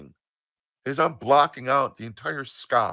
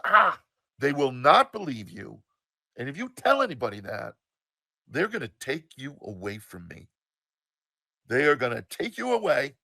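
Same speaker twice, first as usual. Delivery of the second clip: mildly raised, urgent warning; upset mother; 3 semitones higher than usual. Retold or imitated. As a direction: imitate a mother's upset insistence. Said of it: "And she's upset".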